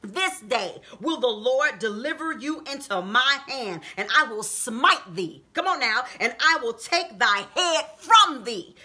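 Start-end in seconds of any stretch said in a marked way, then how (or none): 0.0-5.4 slow scriptural declamation; David's solemn vow. Retold or imitated. David warning Goliath of this day, declaiming. 6.2-8.8 slow, emphatic preaching declamation; David's threat. Retold or imitated. David promising Goliath's defeat, emphatically declaiming.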